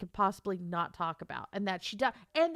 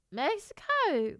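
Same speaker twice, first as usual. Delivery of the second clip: higher, slow, drawn-out guess; confused guess; 6 semitones higher, slower than usual. Acted. American guessing at south of North America, confused. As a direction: stretch it out as if unsure. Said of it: "we're gonna be so confused".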